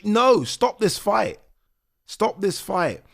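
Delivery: high, loud, slow cry to stop the fight; pleading shout. Retold or imitated. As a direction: beg the ref loudly to end it. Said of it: "I'm like".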